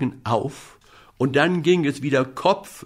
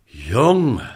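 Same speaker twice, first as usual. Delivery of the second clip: moon's voice; 4 dB louder than usual. Acted. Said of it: "sagte der gute alte Mond".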